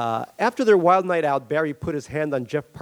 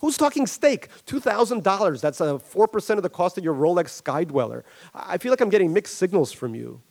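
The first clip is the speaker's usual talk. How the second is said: high, incredulous Barry protesting; hedge-fund man bristling at a refusal; indignant Barry; 6 semitones higher than usual. Acted. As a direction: sound wronged and incredulous. Barry argues over the loan.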